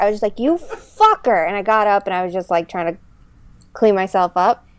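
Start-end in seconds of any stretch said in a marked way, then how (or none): 0.4-1.5 startled mild curse. Retold or imitated. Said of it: "I didn't even yell at her".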